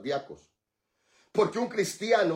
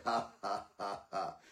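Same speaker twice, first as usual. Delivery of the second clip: mock laugh; 8 semitones lower, 9 dB quieter, slower than usual. Shown as a demonstration. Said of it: "Ríase en la cara del diablo".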